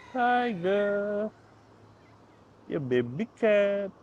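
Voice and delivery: high sweet cat talk; cooing pet talk. Real, not acted. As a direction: coo the cat's name slowly. Baby talk to second cat.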